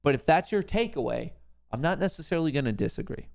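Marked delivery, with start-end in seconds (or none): 1.7-3.3 higher-pitched, quicker take; quick disclaimer. Real, not acted. Host hedging on the viewer's takeaway, quick disclaimer. Repeats the same line for effect.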